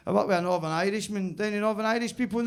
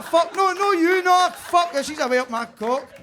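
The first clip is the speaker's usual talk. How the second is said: high, loud mock panic; hammed-up alarm, shouted high; panicked yelling; 11 semitones higher, 9 dB louder, slower than usual. Man in a mishap with an octopus woman, mock-panicked yell.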